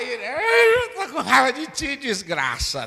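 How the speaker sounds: high, loud, laughing mock rage; mock angry outburst. Churchgoer cursing the preacher in mock anger. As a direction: blurt it like an offended churchgoer.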